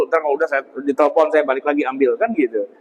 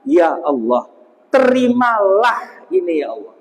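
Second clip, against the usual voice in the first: slaughter prayer recital. Shown as a demonstration. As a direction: intone it like a humble offering prayer. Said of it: "ngomongnya gini".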